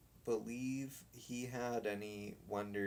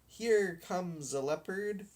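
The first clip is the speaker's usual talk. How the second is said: put-on higher, louder boy's shout; 7 semitones higher, 5 dB louder than usual. Boy spots the dog coming, shouting. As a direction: sing out the news to the gang. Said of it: "shouted one of the boys".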